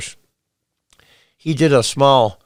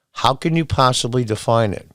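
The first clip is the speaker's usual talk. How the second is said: ordinary delivery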